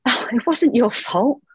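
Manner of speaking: a hint of a soothing voice in her head; gentle inner voice. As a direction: let it land like a kind thought. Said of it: "a voice came into my head".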